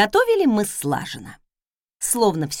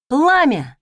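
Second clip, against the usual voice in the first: commanding shout; 5 semitones higher, 7 dB louder than usual. Acted. Another command to the stove.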